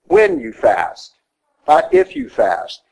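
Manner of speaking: "When" and "if" high and slow, words drawn out; the preacher drives home to the congregation "When you fast, not if you fast", high and slow; stress on when, not if. Shown as a demonstration. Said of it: "stressing when over if".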